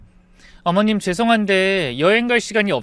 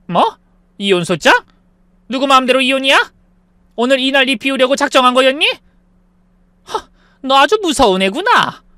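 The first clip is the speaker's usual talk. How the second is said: furious mother-in-law; 6 semitones higher, 5 dB louder than usual. Acted.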